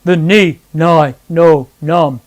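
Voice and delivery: singing exercise on nasal syllables. Shown as a demonstration. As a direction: lean into each N onset. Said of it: "This time as you do it".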